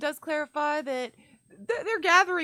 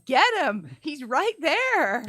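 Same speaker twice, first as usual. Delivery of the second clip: half-raised imitation of a battle cry; mild mock yell; 4 semitones higher, slower than usual. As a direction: imitate a yell, stretching the words out. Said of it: "He yells".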